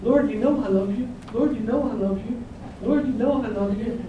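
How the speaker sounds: lightly voiced Peter, pleading. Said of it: "And each time Peter says".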